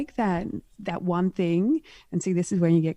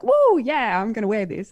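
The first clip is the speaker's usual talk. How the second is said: mock bold older woman; 2 semitones higher, 5 dB louder than usual. Voicing an older woman dressing outrageously, mock exuberant. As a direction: play the woman who doesn't care.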